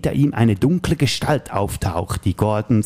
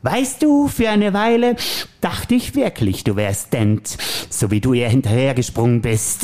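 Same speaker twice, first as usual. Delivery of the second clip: Joker voice; slower than usual. Acted. Plays the Joker in the scene.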